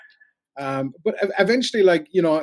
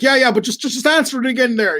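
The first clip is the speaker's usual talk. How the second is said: flustered plea; 9 semitones higher, 6 dB louder than usual. Retold or imitated. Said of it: "I'm like".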